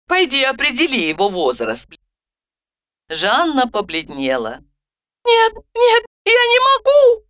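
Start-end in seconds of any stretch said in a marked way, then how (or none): 5.2-7.2 high, frightened babble; babbling Zhanna. A narrator's reading. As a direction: stammer it out, backing away in fear. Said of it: "пятясь, залепетала она".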